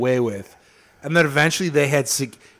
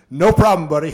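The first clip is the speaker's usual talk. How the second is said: breezy agreement; 3 semitones higher, 6 dB louder than usual. Retold or imitated. New Hampshire cheerfully answers the woman's attorney, mock agreement. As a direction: blurt it out as an eager, chummy official. Acting out the state's casual reply.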